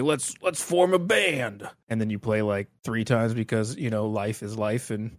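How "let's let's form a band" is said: eager bandmate. Retold or imitated. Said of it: "you're like".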